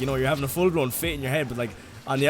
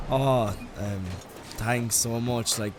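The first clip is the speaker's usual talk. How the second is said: mock polite thanks turning into a loud outburst; sweet thanks that boils over into a rant; fake grateful; 6 dB louder than usual. Opening Christmas presents, faking thanks then fuming.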